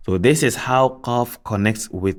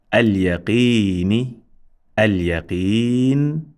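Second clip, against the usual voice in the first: slow, measured word-by-word reading with long held vowels; Arabic recitation drill; slower than usual. Shown as a demonstration. Teacher reading each word twice for learners, slow recitation. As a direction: draw out each Arabic word, pausing between.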